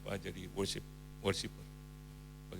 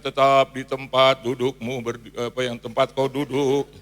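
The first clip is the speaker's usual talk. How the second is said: firm command; 12 dB louder than usual. Retold or imitated. Preacher commanding the crowd.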